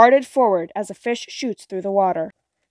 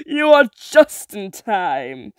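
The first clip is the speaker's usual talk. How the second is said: slow, louder hag drawl; sea witch voice; 5 dB louder, slower than usual. Acted. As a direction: witch savoring the moment. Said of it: "said the witch".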